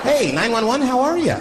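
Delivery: high-pitched, breezy mock greeting; absurdly cool caller. Caller chatting to an emergency operator, mock cool and relaxed. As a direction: greet the operator as if nothing is wrong. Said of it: "cool and relaxed".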